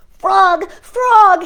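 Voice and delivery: high, loud calling out to Frog; excited cry. A narrator's reading. Toad calling to Frog across the yard, excited and loud. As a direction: call his friend's name eagerly. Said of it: "he cried".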